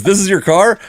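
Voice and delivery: put-on high-pitched, unconvincing British accent. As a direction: have a go at a Brit's surprised question, rising at the end. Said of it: "that's my British accent, by the way".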